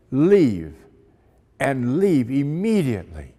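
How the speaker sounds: put-on curt order in a German accent. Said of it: "spoke to us with a German accent".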